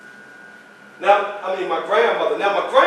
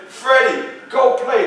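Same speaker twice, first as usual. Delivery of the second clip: grandmother calling; 5 semitones higher, 3 dB louder than usual. Retold or imitated. Grandmother voiced in story.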